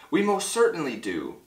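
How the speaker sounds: high little character voice; piping voice. A narrator's reading. Tiny mayor confirms the buildings, piping. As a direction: pipe it up lightly. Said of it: "piped the voice".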